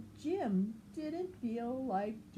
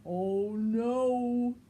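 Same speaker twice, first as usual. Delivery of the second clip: loud dismayed oh no; Norman dismayed; 3 semitones higher, 8 dB louder than usual. Acted. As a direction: groan it out in alarm. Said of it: "said Norman".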